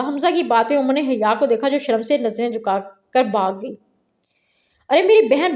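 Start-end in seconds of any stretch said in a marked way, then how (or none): 4.9-5.5 a raised call, a touch higher; louder appeal. Acted. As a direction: call out to her as she runs off. Repeated louder plea.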